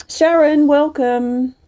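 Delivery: light up as she spots a friend; excited welcome. Real, not acted.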